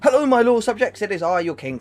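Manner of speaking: grand royal greeting, high and loud; warm regal boom. Pretend. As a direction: announce yourself like a proud king. Mock king greeting viewers.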